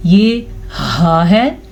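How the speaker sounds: हा said slowly with a light breathy h from the throat; letter pronunciation. Shown as a demonstration. Teacher contrasting the letters for students, slow demo. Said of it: "हा के मखरज का ध्यान रखना है".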